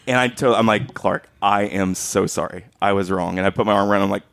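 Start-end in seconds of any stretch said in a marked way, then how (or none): 0.9-3.4 put-on a gentle apology to the boy. Apologizing to a kid.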